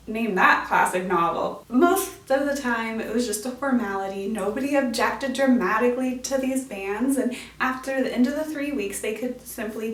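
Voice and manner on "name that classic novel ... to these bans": usual speaking voice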